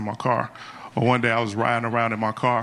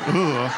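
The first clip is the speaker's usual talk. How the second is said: disgusted ugh. Retold or imitated. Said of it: "Did she just ugh my dreams?".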